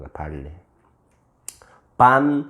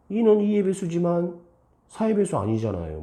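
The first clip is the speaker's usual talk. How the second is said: high-pitched pupil voice; high, put-on pupil explanation; student explaining; 8 semitones higher than usual.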